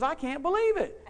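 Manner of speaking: high, loud imitation of her cry; retold joyful scream.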